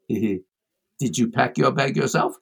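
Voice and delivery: slow, teasing question with rising end; Desmond Tutu. Retold or imitated. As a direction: imitate the archbishop drawing out the joke. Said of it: "and says".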